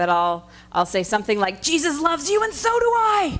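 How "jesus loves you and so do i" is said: put-on furious, very angry high-pitched outburst. Describing being cut off in traffic, acting out a mock-angry voice. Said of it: "sometimes in a very angry voice".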